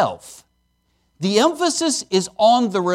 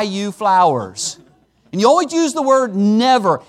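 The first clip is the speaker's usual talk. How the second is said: grudging husband. Acted. Husband sarcastically hands his wife the flowers, resentful and pointed. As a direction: lay it on thick, like he resents every penny. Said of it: "the attitude with which the gift was given".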